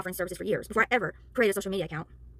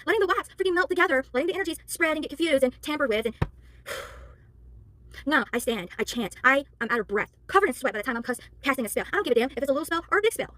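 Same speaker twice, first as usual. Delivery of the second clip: yelling; 3 semitones higher than usual. Real, not acted. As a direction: let your frustration rise. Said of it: "I don't mean to yell".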